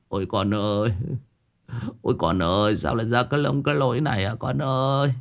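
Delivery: sobbing lament. Acted. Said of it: "nấc lên nấc xuống".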